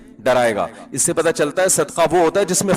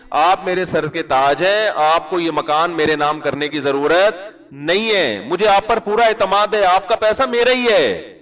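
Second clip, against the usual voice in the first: hammed-up sweet wife, pitch raised; ideal devoted wife; 2 semitones higher than usual. Preacher voices a loving wife to her husband, mock-adoring.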